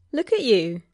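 light, teasing praise; proud, teasing. A narrator's reading. Neighbour ribbing a new friend, proud and teasing. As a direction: tease with mock pride. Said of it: "Louis said proudly, his voice teasing and light".

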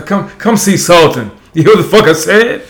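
a hint of a brash comedian's cadence; Bernie Mac. Real, not acted. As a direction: call them out with comic swagger. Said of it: "you just sounded like Bernie Mac".

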